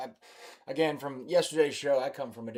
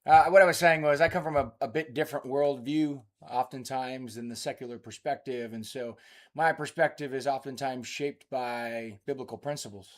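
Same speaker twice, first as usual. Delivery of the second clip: Marine voice; 4 dB louder than usual. Real, not acted. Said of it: "I should probably use my Marine voice".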